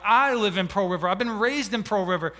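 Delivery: astonished, emphatic comeback; retold astonishment. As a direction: protest it in surprise, hitting the first words. Retells his astonished reply to mom.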